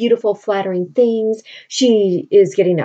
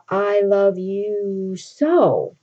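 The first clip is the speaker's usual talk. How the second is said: dreamy lover; much slower than usual. Retold or imitated. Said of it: "so he's like".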